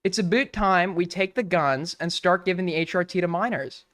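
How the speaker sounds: lightly faked Canadian accent; bad Canadian accent. Streamer as Canadian demanding guns be taken, bad Canadian accent. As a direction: have another clumsy go at a Canadian accent. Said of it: "I can't do a good Canadian".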